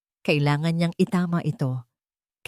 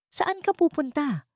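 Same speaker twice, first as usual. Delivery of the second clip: gentle question; 10 semitones higher than usual. Acted. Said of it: "mahinahong tanong ni Hiraya".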